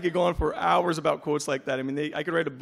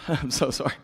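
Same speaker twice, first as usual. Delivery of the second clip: choked up. Real, not acted. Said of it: "I'm about to get choked up here".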